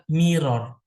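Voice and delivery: mirror said slowly, rolling the r in mirror; careful English mirror. Shown as a demonstration. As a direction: model the word mirror clearly for students. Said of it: "Saya bilang".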